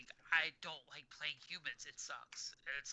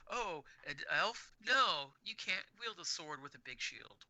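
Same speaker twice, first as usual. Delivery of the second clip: mock dismissive refusal; 2 semitones higher, slower than usual. Player mimicking game makers who bar elves from swords, mock dismissive. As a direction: imitate a gatekeeper shooting down the idea.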